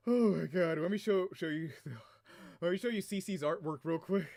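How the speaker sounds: winded talk after laughing; catching breath between words. Real, not acted. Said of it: "I'm out of breath".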